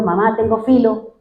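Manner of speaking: a hint of a complaining teenage boy; hungry boy whining. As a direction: play the hungry son lightly pleading with his mom. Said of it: "y el chino diciendo".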